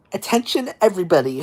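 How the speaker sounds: high mock announcement voice; hayride announcer lady. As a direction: call the crowd to attention, imitating a host. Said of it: "This lady got on, okay? She was like".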